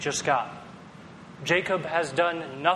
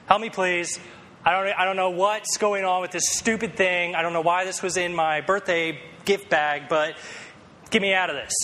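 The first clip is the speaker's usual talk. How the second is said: mock-exasperated kid begging; 3 semitones higher than usual. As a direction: give up and beg for help. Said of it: "I just exasperated".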